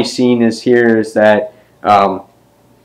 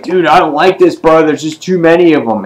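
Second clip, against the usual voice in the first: lightly acted uneasy bro, higher pitch; higher, uneasy retelling; voiced worried character; 6 semitones higher than usual. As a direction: play a mildly rattled guy protesting to his buddy. Voicing a worried comic character.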